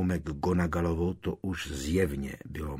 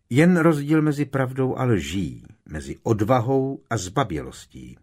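clipped, louder retort, higher; snapping back; 5 semitones higher, 6 dB louder than usual. A narrator's reading. McGonagall snapping at Amicus, cold fury. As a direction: bite off each word. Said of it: "odsekávala".

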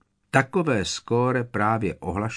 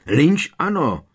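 a higher, quick yelp; 6 semitones higher, 4 dB louder than usual. A narrator's reading. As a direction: blurt it out. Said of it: "vyjekl Harry". (vzrušené vyjeknutí)

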